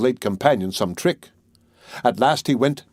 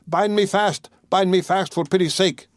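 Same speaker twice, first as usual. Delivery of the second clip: higher, frantic plea to be tied; cling to safety in terror; desperate begging; 7 semitones higher than usual. A narrator's reading. Miser begging to be held.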